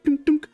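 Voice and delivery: high, popping dunk noises; imitated dunking sounds. Kobolds land bottles before Bucky, imitated dunks. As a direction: voice each bottle as a pitched thunk.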